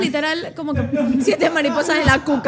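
bursts into a laugh mid-line. Real, not acted. Telling friends about butterflies, laughing loudly. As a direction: crack up at her own punchline. Laughing at her own joke.

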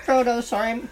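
talking through a mouthful of food; chewing while speaking; mouth full. Real, not acted. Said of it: "I've got a mouthful of food".

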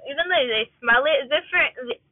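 talking around a wad of gum; slightly slurred, gum in mouth; chewing gum. Real, not acted. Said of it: "Sorry, I'm chewing gum".

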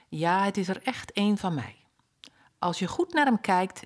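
a fond mother softly admiring her odd chick; mother duck cooing, dropping to a whisper; relieved mother duck. Acted. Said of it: "mother duck relieved, proud".

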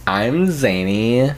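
put-on drawn-out zesty Valley Girl intro. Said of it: "that was definitely the voice. The zesty voice".

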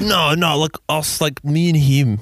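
acting out an emphatic "no, you misunderstood"; insistent. Retold insistent man correcting a friend.

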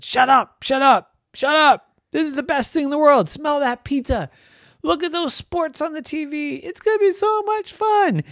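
high cartoon pins, pushy and thrilled; bossy bowling pins. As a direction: hush her then gush gleefully.

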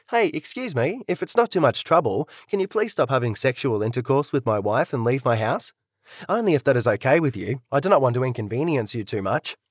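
sarcastic. Retold or imitated. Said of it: "No need to be a smartass about it".

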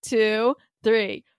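measured, spaced-out countdown; count-in. Pretend. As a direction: cue everyone to speak together, low and deliberate. Counting in to say it together.

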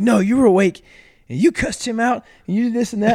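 high, loud scandalized sister voice, imitated; imitating a prim sister's horrified scolding; mimicking sister. Sister scolding in retold story.

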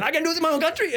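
high mock Middle Eastern accent. Quoting the man's protest again, mock Middle Eastern accent. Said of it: "a Middle East accent".

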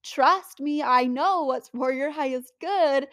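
a hint of God pleading with stubborn people; lightly voiced God warning. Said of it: "And he's like".

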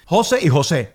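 "José y José", first HO-se, then ho-SÉ; two name pronunciations. Shown as a demonstration. Host questions the difference, contrasting the two stresses of José. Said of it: "cuál es la diferencia".

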